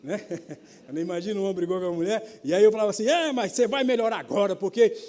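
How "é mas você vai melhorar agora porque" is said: loud, insistent blessing; emphatic encouragement. Retold or imitated. Employee promises grumpy boss a blessed week, loudly encouraging. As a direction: press encouragement on a grouch.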